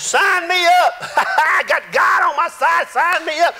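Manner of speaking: laughing, high excited shout; eager Jeremiah. Acted. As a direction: shout it out like a kid signing up. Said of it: "Jeremiah says".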